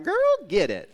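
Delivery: put-on girl get it shouted high and loud; loud cheer. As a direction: cheer it out big and bright. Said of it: "I'm like".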